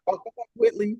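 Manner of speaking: lightly voiced Southern belle; Southern drawl put on. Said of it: "she was like".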